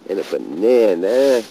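loud, rising exasperated bark; loud indignant huh at the end; angry outburst. Real, not acted. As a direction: blow up at the litter. Frustrated at grave litter.

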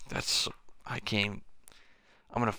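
whispered, spent sigh; defeated whisper. Real, not acted. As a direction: barely breathe the words out. Exhausted after rage outburst.

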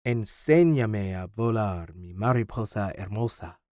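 tender, unhurried Spanish; earnest Spanish. A narrator's reading. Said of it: "looked Ben directly in the eye before speaking".

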